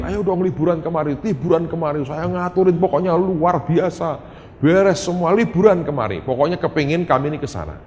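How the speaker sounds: eager coaxing. Retold or imitated. Pastor friend urging the family to visit, eager coaxing. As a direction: coax them to come over.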